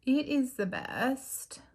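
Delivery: talking while lining lips; slow words round a lip pencil; while putting on lip liner. Real, not acted. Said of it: "I can't talk and do lip liner".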